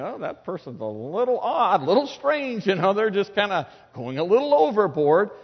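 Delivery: lightly voiced puzzled onlooker, half laughing; a hint of a bemused bystander judging; mock onlooker. Onlooker remarks on an overenthusiastic believer, lightly mocking. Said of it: "looks at you and says".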